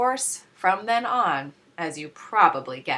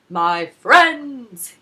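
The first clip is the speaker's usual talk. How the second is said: salesman hello; 5 semitones higher, 12 dB louder than usual. A narrator's reading. Salesman greets the Sneetches.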